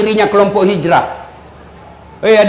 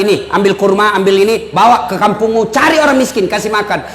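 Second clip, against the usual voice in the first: kind instruction; 4 semitones lower than usual. Acted. Prophet instructing kindly.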